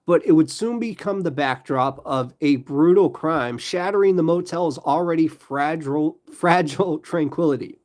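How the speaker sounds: deliberate true-crime read; measured, dramatic storytelling; story narration. A narrator's reading. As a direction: narrate like a crime documentary, each phrase set out. Continues reading the story.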